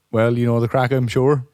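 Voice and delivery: casual genie explaining the rules; understated, unfazed genie; matter-of-fact genie. Acted. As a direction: rattle off the offer as routine business. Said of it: "he's remarkably matter of fact".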